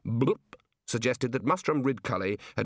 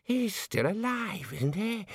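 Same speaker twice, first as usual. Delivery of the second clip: high, slow wheeze; wheezing old man; 9 semitones higher, slower than usual. A narrator's reading. Aged Ponder asks after an old wizard, wheezing. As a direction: wheeze it out, drawing the words long. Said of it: "he wheezed".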